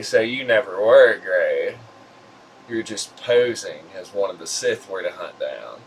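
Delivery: put-on crackly, old-sounding voice. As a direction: speak in a crackly voice. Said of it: "in my crackly voice".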